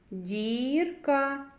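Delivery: "Дірка" with a long stretched "і"; vowel drawn out. Shown as a demonstration. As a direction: hold the "і" in "Дірка" so it stands out. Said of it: "І. Голосний". («Дірка» з протяжним «і»)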